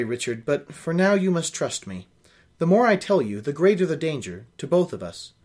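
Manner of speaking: reading a novel aloud, steady and even; story narration. A narrator's reading. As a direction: carry the listener through the scene. Reads novel aloud with character voices.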